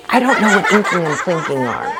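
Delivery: quick words through a giggle; laughing aside. Real, not acted. Pastor giggles to the kids about the odd words. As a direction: chuckle it out quickly.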